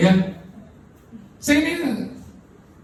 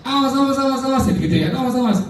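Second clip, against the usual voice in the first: playful, higher "awas, awas"; teasing warning; 6 semitones higher than usual. Retold or imitated. Husband teasing his wife in bed, playful warning. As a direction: tease her with mock threats.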